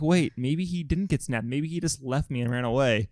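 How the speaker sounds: soft, slow imitated worry; hammed-up quiet doubt of the one left behind; mock forlorn family. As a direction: wonder aloud softly, drawn out. Voicing the abandoned family.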